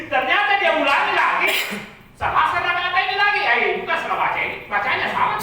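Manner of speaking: loud, high, laughing through the words; amused retelling. Real, not acted. Preacher retelling the teacher's repeated mistake, laughing. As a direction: tell it through rising laughter.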